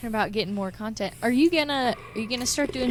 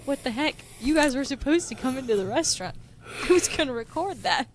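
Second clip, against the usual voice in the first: mock indignant protest; 4 semitones higher than usual. Retold protest about missed plan.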